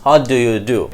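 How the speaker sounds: "What do you do" with every word separate; unlinked words. Shown as a demonstration. Teacher reads out the example sentence, unlinked. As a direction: keep "do you" as two full words. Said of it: "আমরা কিভাবে বললাম".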